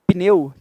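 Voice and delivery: "Pneu" in a single impulse of voice; "Pneu" with p running straight into n; one-impulse pneu. Shown as a demonstration. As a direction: say "Pneu" as one syllable, no vowel between p and n. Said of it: "A pronúncia correta de pneu é um impulso só de voz".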